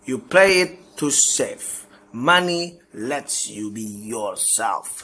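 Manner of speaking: slow, deliberate recitation of life lessons; slow measured motto reading, ending on an upbeat call; slow list reading. Acted. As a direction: read each lesson out as a weighty motto. Reads closing list of lessons.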